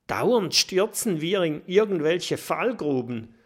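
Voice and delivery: protesting. Acted. Mathilda protesting to friends after another pit fall. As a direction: complain with exasperation. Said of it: "protestiert Mathilda".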